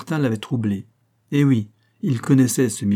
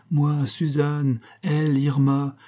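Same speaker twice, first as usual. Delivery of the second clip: lightly higher woman's voice, slow on moi, Suzanne; young woman naming; 4 semitones higher, slower than usual. Acted. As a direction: set out the names one by one. Susan naming the sisters.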